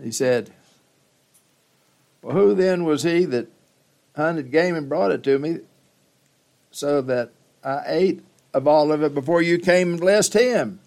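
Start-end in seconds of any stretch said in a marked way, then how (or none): 2.2-10.8 put-on shaken old father. Old Isaac realizes the deception.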